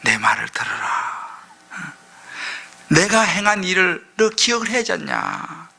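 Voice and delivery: hushed, slow God voice; a gentle, low God urging; God pleading. Acted. Preacher voicing God to his people, hushed and slow. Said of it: "하나님은 뭐라 그래요?".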